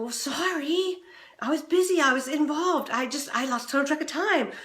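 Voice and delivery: high, defensive mock excuse. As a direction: justify yourself, brushing it off. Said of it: "with that tone of voice that says".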